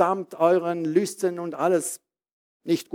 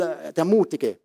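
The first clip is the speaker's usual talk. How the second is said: normal talking voice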